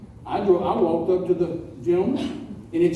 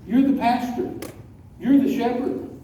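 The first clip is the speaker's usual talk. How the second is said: higher, drawn-out admonishing delivery; earnest rebuke; 4 semitones higher, slower than usual. Retold or imitated. Fifteen-year-old to a pastor planting bushes, earnest rebuke. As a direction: press each duty home slowly. Teenager scolds a pastor in story.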